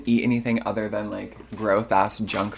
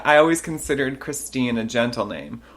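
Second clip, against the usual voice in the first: put-on drunk woman. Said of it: "and she said".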